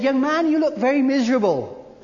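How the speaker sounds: put-on single out the miserable young man; lightly voiced preacher; preacher calling out. Preacher calls to Spurgeon.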